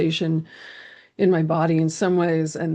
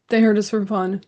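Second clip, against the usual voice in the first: fearful small voice; 4 semitones higher than usual. Retold or imitated. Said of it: "There's such fear in my small voice".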